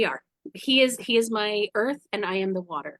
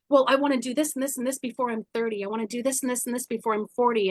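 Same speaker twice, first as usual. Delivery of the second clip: quick rattled-off list; mock life checklist; faster than usual. Imitating people racing against age, hurried listing. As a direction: rattle through the goals in a hurry.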